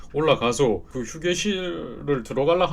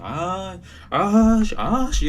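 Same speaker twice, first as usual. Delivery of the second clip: higher, louder mock annoyed grumble; mock grumbling; 6 semitones higher, 4 dB louder, much slower than usual. Retelling the strange guest's grumbling, in mock irritation. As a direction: mimic a man cursing to himself, louder. Mimicking the man's muttered grumbling.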